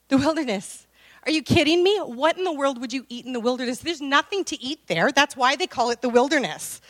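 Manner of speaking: a mother who can't believe her ears; shocked mother. Acted. Elizabeth to her son about the wilderness, shocked disbelief.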